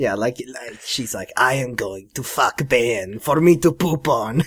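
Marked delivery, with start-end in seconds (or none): 1.4-4.4 slow, insult-comic dog voice. Retelling what a woman on camera says, in Triumph the Insult Comic Dog voice. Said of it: "speaking with like a triumph the insult comic dog voice".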